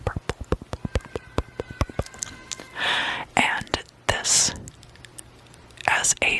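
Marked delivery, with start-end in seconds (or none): 0.0-2.3 whispered word echoing away; ASMR trigger word, dwindling to almost nothing; fading whispered repetition. Acted. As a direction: repeat it in a whisper, each one fainter.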